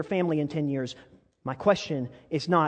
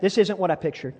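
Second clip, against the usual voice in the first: congregation repeat; 3 semitones higher, 5 dB louder than usual. Shown as a demonstration. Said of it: "Say that".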